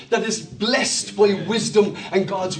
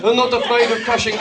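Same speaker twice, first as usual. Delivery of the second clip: put-on terrible Dutch accent; 3 semitones lower, faster than usual. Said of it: "I'm doing a terrible Dutch accent".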